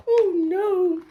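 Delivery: high joyful call of a name; happy shout. A narrator's reading. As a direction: call out to an old friend. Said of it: "shouted Hannah".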